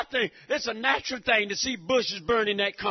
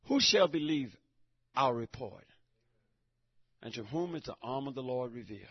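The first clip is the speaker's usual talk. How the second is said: low, hushed scripture reading; hushed closing verse; quiet reading; 9 semitones lower, 6 dB quieter than usual. Acted. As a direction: let the verse settle softly.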